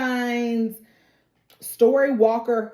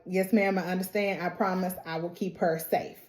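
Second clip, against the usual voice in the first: soft, low yes ma'am; meek promise; 4 semitones lower, 8 dB quieter, faster than usual. Retold or imitated. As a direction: answer like a cowed boy. Randall promising meekly.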